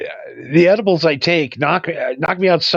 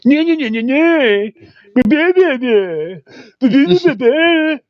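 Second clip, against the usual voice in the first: high, loud nonsense babble; gibberish chatter; 9 semitones higher, 4 dB louder, slower than usual. Retold or imitated. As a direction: mimic people sounding like gibberish. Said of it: "people are going like".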